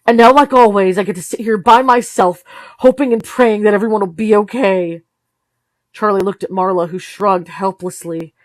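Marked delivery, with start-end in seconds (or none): 0.0-5.0 loud, raised bitter complaint; mother venting to the teenagers, loud; bitter outburst. Acted. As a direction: let the hurt spill out loud.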